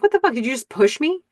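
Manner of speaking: high-pitched mock outrage; acted shock. Man just shoved by his date, acted shock. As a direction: jump up in pitch, indignant.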